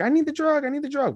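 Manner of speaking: put-on very high pleading girl; very high pleading little girl; desperate girl. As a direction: beg it very high. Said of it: "She's like".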